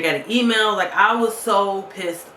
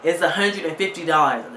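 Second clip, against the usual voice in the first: retold outrage. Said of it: "I was so mad".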